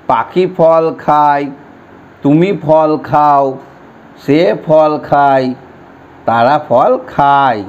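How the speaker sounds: very slow, word by word, for writing down; slow dictation. Shown as a demonstration. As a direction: spell it out slowly so they can write. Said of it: "বাক্যগুলো আমরা এখানে লিখে নিই". (ধীরে ধীরে লেখানোর মতো করে বলা)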